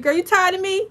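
high teasing question; playful. Real, not acted. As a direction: tease her playfully.

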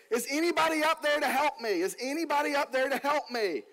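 hammed-up cry for help from a man hanging on a tree; calling for help. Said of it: "he starts yelling to the top of the cliff".

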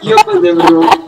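sudden high-pitched yell. Real, not acted. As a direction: yelp it out loud. High shout after mishap.

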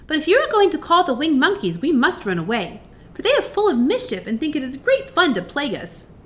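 high-pitched mouse queen; squeaky little voice. A narrator's reading. Queen of the Mice warning about winged monkeys, squeaky. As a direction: warn in a small mouse's voice. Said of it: "in her squeaky little voice".

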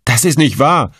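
high outcry of denial; shout. A narrator's reading. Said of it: "schrie der Tagelöhner".

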